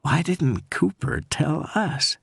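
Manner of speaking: high, slow, scared Southern voice; bitter fear in the question; frightened Southern woman. Acted. Scared caller firing back at the detective, Southern accent. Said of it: "the caller was frightened".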